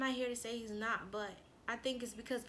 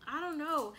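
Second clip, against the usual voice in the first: higher-pitched flustered protest; acted-out anxious rambling; retold nervousness; 4 semitones higher than usual. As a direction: replay arguing back, unsure and worked up. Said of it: "it's like I was nervous".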